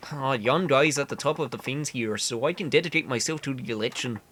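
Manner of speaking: earnest candidate in bad Canadian; awful Canadian accent. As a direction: campaign talk with a badly faked Canadian accent. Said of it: "I know the accent is awful".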